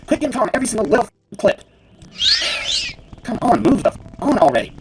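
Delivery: high, loud and rushed complaining; impatient gamer ranting at the game; exasperated rant. Real, not acted. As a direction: fume at the screen to hurry up. Fuming at slow game dialogue.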